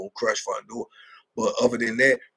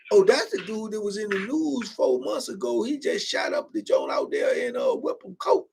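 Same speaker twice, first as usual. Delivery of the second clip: imitating an inmate; 8 semitones higher than usual. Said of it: "they be like".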